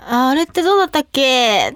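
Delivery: mindless echo. Shown as a demonstration. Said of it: "ってそのまま返してる時は".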